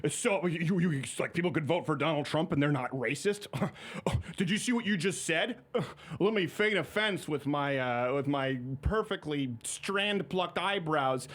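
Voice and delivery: mock-scandalized, sputtering with scoffing laughs; feigned offense. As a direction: stammer as if too appalled to finish, hammed up. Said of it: "Just act like it's so absurd".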